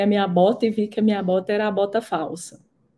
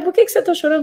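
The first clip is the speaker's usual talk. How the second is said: voicing her mother; 7 semitones higher, much faster than usual. Mother voiced in retold story.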